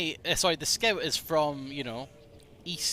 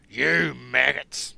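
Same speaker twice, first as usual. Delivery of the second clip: slow, louder American "You maggots"; American Soldier attempt; 6 dB louder, much slower than usual. Shown as a demonstration. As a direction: yell "maggots" with an American short a. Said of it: "how would an American say maggots?".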